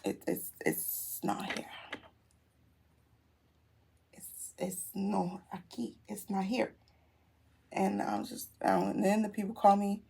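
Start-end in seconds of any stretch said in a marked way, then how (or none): 0.1-6.7 slow, halting and hushed; deflated disbelief. Retold or imitated. Car owner finds no car outside, quietly deflated. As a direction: trail softly through stunned repetitions. Retells realizing car is missing.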